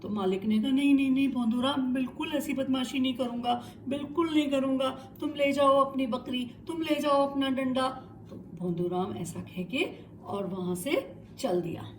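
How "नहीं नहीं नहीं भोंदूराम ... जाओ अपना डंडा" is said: fast, pleading promises, higher; nervous, hurried apology; anxious promise. Acted. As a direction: rush to swear he won't do it again. Scared owner promises to behave.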